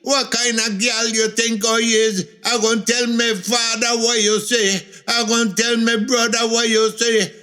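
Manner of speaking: put-on high, shrill-pitched indignant girl shouting; a scandalized young woman crying out to the whole square; outraged girl bawling. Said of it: "bawled out for everybody to hear".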